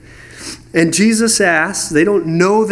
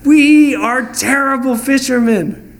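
higher, louder hammed-up lament; mock disciples; 6 semitones higher, 4 dB louder than usual. Disciples confessing failure, higher and louder mock lament. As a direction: play the hapless fisherman for laughs. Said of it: "It's like".

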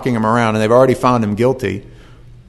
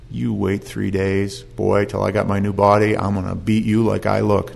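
mock threat; 4 semitones lower, 4 dB quieter than usual. Preacher imagining a vengeful Jesus facing Peter, low mock threat. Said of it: "do you think that face is saying".

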